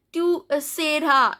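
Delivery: "seras" said as "se-ra"; "seras" with the S dropped; silent final S. Shown as a demonstration. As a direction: say "Tu seras" ending on the a. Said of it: "S is not pronounced".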